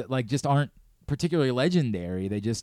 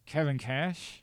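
talking with a pen between the teeth; pen in mouth; 4 semitones higher, 4 dB quieter, much slower than usual. Real, not acted. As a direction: say it around a pen in your mouth. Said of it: "I had a pen in my mouth".

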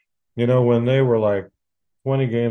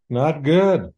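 emphatic repeat; 5 semitones higher than usual. Real, not acted. Repeating his verdict on the team.

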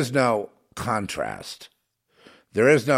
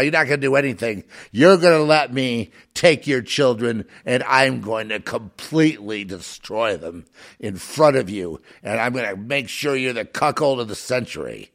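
lightly voiced gloating tyrant, peaking loud; mocking elite tyrant; 3 semitones higher, 6 dB louder than usual. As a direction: taunt the weak masses as a gloating overlord. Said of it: "Putting and saying".

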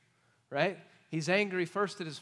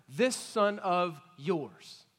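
put-on mad older brother; 3 dB louder than usual. Older son disowning his brother to father, bitter and loud. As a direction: spit out this son of yours. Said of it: "he's mad at his brother".

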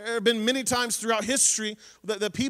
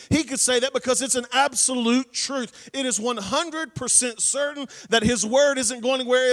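louder, driving sermon voice; preaching at full force; 2 semitones higher, 3 dB louder than usual. Acted. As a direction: preach it out to the congregation. Preacher hammers never ever.

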